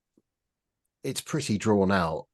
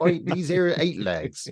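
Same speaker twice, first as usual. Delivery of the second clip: put-on West Country accent; 9 semitones higher, slower than usual. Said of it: "doing West Country accents".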